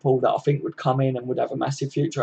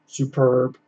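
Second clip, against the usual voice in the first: mock calm Rodgers; much slower than usual. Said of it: "Brendan Rodgers was very much like".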